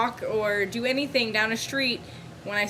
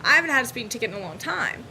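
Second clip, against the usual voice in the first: rushed protest; 3 semitones higher, faster than usual. Retold or imitated. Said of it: "And I'm like".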